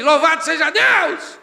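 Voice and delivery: high, loud, slow cry of praise; slow praise shout. Retold or imitated. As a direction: draw it out in ecstatic worship. Grito de louvor. (grito de louvor lento, agudo e forte)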